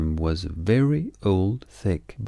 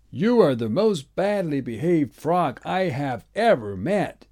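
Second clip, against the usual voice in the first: higher, a mild angry scold; pitched-up mock fury; old man shouting; 8 semitones higher than usual. A narrator's reading. Old man scolding the naughty frog, mildly angry. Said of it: "he shouted".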